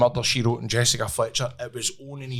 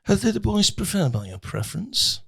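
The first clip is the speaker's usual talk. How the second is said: lightly acted Mancunian lines; Manchester accent; 2 semitones higher than usual. Showing mates a part played, Manchester accent. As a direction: recite the script with a Manchester accent. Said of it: "Your Manchester accent was good".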